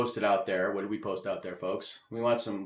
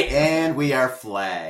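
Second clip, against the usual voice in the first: mock announcement; 2 semitones higher, 5 dB louder, much slower than usual. Mock announcement after swearing.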